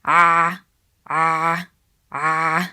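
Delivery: a voiced from the middle of the throat; Arabic ain. Shown as a demonstration. Teacher drilling the ain sound first. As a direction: hold the ain squeeze on a. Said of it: "Make the ain sound first".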